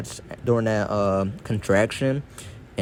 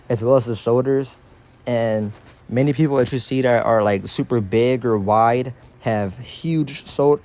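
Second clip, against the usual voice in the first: talking around braces in mouth; speech a bit thick from braces. Real, not acted. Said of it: "hard to talk with these braces in my mouth".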